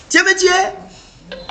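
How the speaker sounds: high, slow, stretched out complaint; slow high-pitched replay of the protest; slow drawn-out repeat. Acted. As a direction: drag each word out in reproach. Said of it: "Tu cries".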